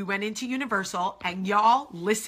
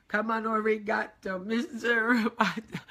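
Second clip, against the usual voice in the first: robot voice; 2 semitones higher than usual. Retold or imitated. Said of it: "inner body total freak out".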